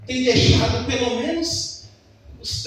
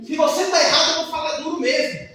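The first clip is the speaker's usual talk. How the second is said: mock stern wife; 4 semitones higher, 3 dB louder than usual. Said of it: "wife's retort".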